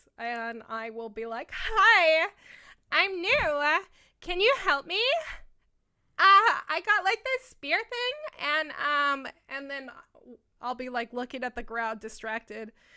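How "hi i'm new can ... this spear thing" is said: fake girly voice, high and very loud. A player baiting other players in the game; put-on girl voice. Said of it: "I'll put on my girl voice".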